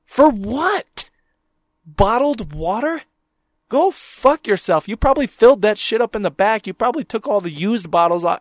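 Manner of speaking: mocking the water vendor's price, indignant; outraged retort. Real, not acted. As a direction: scoff at the price.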